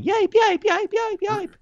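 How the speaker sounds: high yelping whimper; dog yelping imitation. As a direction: yelp like a hurt puppy. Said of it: "he ran away going".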